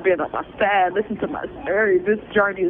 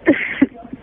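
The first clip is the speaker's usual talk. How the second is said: high breathy sob; 7 semitones higher than usual. Real, not acted. Breaks down while begging please.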